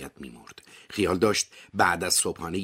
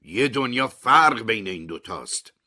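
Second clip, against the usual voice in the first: surprised; 5 semitones higher, 5 dB louder than usual. A narrator's reading. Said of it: "اووه متعجب میگه".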